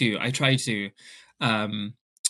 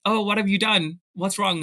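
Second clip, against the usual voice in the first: mock-alarmed mom; 7 semitones higher than usual.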